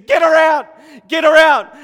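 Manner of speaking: high, full-force shout; yelling. Acted. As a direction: yell like angry disciples ordering someone removed. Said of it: "The disciples are yelling".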